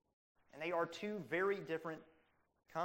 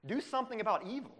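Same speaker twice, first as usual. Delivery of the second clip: raised pleading cry, louder; crying out to God; 4 dB louder than usual. Retold or imitated. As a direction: call on God to judge the enemies. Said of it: "they cry out to God".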